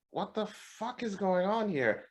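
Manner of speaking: slow, high, soft bewilderment; hushed high-pitched incredulity; retold disbelief. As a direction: draw it out as dawning mock horror. Retold dawning realization.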